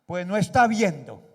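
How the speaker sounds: loud, sharp snapped retort; angry retort. Shown as a demonstration. Husband snapping back at his wife in anger. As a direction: bark it back like an angry spouse. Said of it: "le voy a ilustrar esto".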